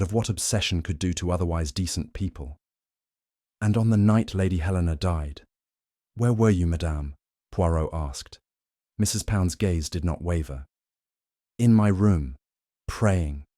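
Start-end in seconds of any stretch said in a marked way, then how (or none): 3.6-7.2 repeated pointed question; Poirot's question. Acted. Poirot questioning Mrs Pound. 11.6-13.5 louder, firm and steady; firm housekeeper's answer; Mrs Pound's answer. Acted.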